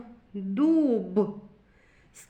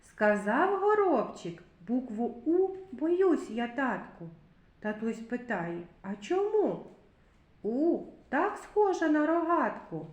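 put-on children's rhyme; 3 semitones higher than usual.

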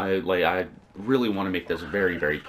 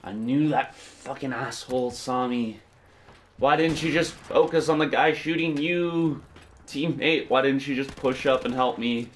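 high, loud, frustrated shouting at teammate; angry yelling; 7 semitones higher, 4 dB louder than usual. Real, not acted. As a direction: yell at a useless teammate. Teammate gets him killed.

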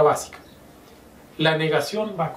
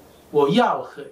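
drawn out syllable by syllable; slow teaching read; slow careful Chinese; slower than usual. Shown as a demonstration. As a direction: say 我要喝 slowly as a model. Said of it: "yo puedo decir".

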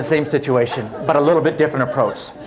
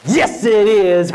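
slow meek yes; 5 semitones higher, much slower than usual. Retold or imitated. Meek reply to the airline agent.

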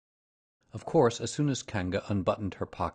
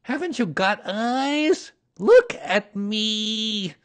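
high, loud, drawn-out demand; small animal's exasperated high shout; 12 semitones higher, 7 dB louder, much slower than usual. A narrator's reading. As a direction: shout slowly for attention, up high. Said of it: "shouted Piglet".

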